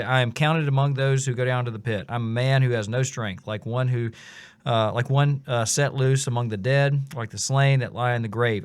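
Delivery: scripture read out with rising intensity; reciting a psalm. Acted. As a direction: read the psalm like a cry of despair. Reading Psalm 88 with feeling.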